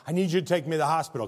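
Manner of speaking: fast, pressing request; urgent plea. Retold or imitated. Injured friend at the door, urgent fast plea. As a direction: rush it out, desperate for help. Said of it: "knocked on the door and went".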